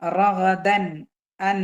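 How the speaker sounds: റഗദൻ, അൻ with the n fully articulated; clear izhar. Shown as a demonstration. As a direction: end റഗദൻ on a clear, unhummed n. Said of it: "നൂനിനെ വെളിവാക്കിയിട്ട് pronounce ചെയ്യാ".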